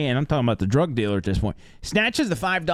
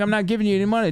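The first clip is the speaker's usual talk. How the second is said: put-on higher, stubborn drunk voice; drunk refusal; 7 semitones higher, much faster than usual. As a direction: dig in like a drunk who won't pay. Drunk passenger voiced in argument.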